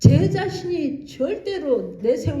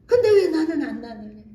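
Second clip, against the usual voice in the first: louder, pressing demand on 근데; patient pressing the missionary again, louder; insistent patient; 2 semitones higher, 6 dB louder than usual. Retold or imitated. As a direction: push the question hard, stressing 근데. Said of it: "뭐라 그러니?".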